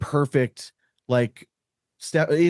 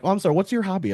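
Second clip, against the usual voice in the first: mock sarcastic; 7 semitones higher, faster than usual. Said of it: "I'm like".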